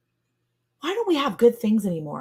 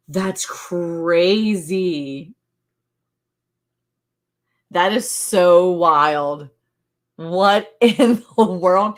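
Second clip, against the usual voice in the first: amazed; 5 dB louder, much slower than usual. Real, not acted. Amazed at cashew fruit.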